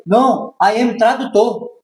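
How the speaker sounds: fala devagar entre risos; rindo. Retold or imitated. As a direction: explica rindo que é tradutor. Insistindo rindo com a recepcionista. (rindo ao dizer que é só o tradutor)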